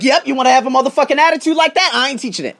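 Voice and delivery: fast, high, combative retort; defiant comeback. Retold or imitated. Teacher snubbing a rude colleague over a class, defiant. Retold refusal in a quarrel.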